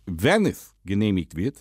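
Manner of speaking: put-on Dutch accent, lisping. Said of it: "rede, lispeln und Holländisch".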